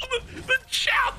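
slow, very high laughing squeal; helpless laughter. Real, not acted. Streamer laughing at the chat, high helpless squeal. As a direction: squeeze the words out while laughing.

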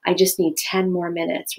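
even, calm request; calm talking tone. Shown as a demonstration. Parent asking family for time, calm talking tone. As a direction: ask for time without any edge. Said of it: "rather than".

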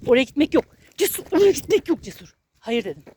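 firm, loud scolding. Real, not acted. Owner scolding the dog Cesur for pulling away, loud and firm. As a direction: tell the dog off, no room for argument. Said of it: "kızıyorum".

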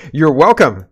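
sarcastic government voice; mock government voice. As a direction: hand it over like a smug official. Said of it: "says the government".

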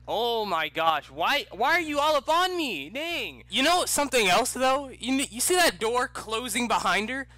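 high, loud shouting at the screen; real excited outburst; excited yelling. Real, not acted. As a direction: yell it out, pitch way up. Player yelling at clingy companion.

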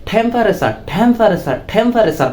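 "টেম্পারেচার" opening on a puffed th; aspirated T demo. Shown as a demonstration. Teacher applies the new T to temperature, aspirated pronunciation. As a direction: drill "টেম্পারেচার" with an airy first t. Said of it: "কি উচ্চারণ করতে হবে?".

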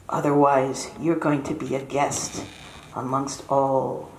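put-on a mother fussing over her boy; soft worried mother. Mother fussing as her son leaves for winter. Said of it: "She says".

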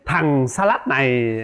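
slow, drawn-out mock scolding; imitated scolding. Husband quotes wife scolding him for slowness, mock scolding. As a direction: mimic a wife's telling-off, without raising the voice. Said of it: "chửi, chửi về cái tật là chậm chạp".

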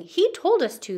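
knights' high eager blame; knights protesting. Acted. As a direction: point the finger loudly. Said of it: "they cried".

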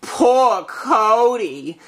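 drawn-out, slow lament; mournful worry. Acted. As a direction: dwell slowly on the poor child. Mother hears her son is missing.

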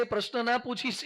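ordinary talk

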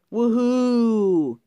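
high, loud, long whoop; cheering. A narrator's reading. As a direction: whoop it out with glee. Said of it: "he cheered".

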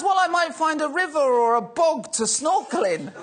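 hammed-up innocent excuse with a laugh; laughing quote. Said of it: "And he goes".

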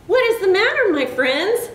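high, lilting little engine; kindly asking. A narrator's reading. Blue engine greeting the stranded toys, kindly asked. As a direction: open high and friendly, then settle. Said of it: "she asked kindly".

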